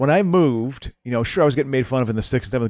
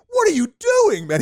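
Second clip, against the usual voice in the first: mock yell. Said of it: "He's like".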